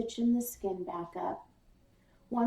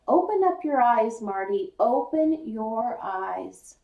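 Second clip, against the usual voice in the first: insistent; 6 dB louder than usual. Acted. Father insists to son.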